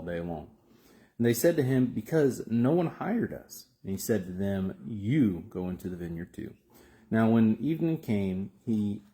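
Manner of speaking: measured, emphatic Bible reading aloud; scripture reading. Acted. Preacher reading the vineyard parable to viewers, emphatic scripture reading. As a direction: read the parable out with weighty stresses.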